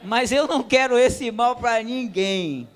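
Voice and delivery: high, loud, slow laugh through the words. Real, not acted. Preacher laughing to the congregation, high and loud. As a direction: laugh it off, half-nervous.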